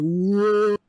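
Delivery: high, loud startled whoa; mock-frightened whoa from a bouncing boat. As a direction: squeal it out like she's on a wild ride. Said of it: "That fat lady is going like".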